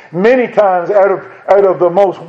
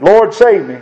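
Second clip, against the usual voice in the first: a touch of a pleading cry, Lord save me; mild cry for help; 3 semitones higher than usual. Retold or imitated. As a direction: call out like Peter sinking, understated. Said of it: "gave him that wisdom to cry out".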